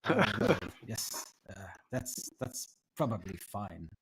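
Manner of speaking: put-on hesitant, awkward old tiefling; uncomfortable. Tiefling answers the visitor's awkward apology, lightly uncomfortable and halting. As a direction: stumble awkwardly into accepting an apology. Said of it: "he looks extremely uncomfortable".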